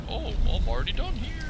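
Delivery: high-pitched mock quote; put-on high voice, rising up; mock acted quote. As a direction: squeak it out as an imagined player. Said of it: "like you're gonna be".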